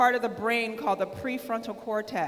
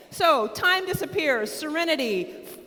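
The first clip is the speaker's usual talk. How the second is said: excited shouting; 5 semitones higher than usual. Real, not acted. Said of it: "Sorry, I'm shouting".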